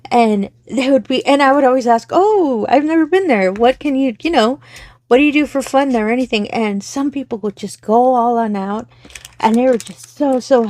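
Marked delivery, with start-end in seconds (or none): 2.1-6.5 higher-pitched, eager customer-service curiosity; retold curious interest. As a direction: re-enact asking a customer with keen interest. Retells her curious questions to customers.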